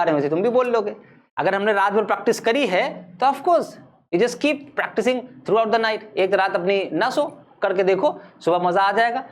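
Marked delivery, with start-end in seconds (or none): 3.3-6.2 very slow, spaced English; deliberate slow teacher line; slow, careful English advice. Shown as a demonstration.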